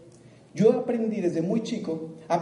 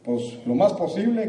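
slow, drawn out vague answer; typical person's answer; slower than usual. Retold or imitated. Speaker imitates a person answering how much money, slow and vague. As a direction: stall like someone with no real plan. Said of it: "¿Cuánto dinero te gustaría ganar?".

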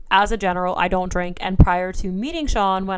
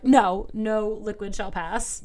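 mock stern gatekeeper; slower than usual. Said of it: "my throat, like, closes and it's like".

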